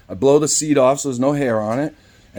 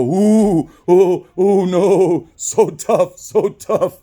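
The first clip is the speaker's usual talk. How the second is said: high sarcastic cooing; hammed-up teasing, pitched up; mock fear; 5 semitones higher, 4 dB louder, much slower than usual. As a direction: taunt him with pretend awe. Mocks customer trying to intimidate him.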